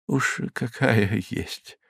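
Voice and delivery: soft and slow, a pale smile; wan smile. A narrator's reading. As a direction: say it with a weak smile. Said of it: "бледно улыбаясь".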